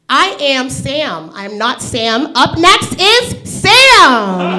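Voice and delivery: slow, drawn-out rhyming; each line spaced out like a poem; slow sing-song rhyme intro; mock rhyme. Shown as a demonstration. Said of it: "I'm gonna rhyme".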